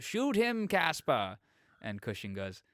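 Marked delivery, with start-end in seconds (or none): 0.0-1.4 high, loud retold command; mock scream. Retelling beaten Oswald screaming to Caspar, mock scream. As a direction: cry out the order like a beaten villain. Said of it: "Oswald screams out".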